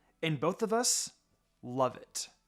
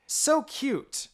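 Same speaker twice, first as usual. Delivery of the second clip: cooing; 12 semitones higher, 5 dB louder than usual. A narrator's reading. Cooing at a baby.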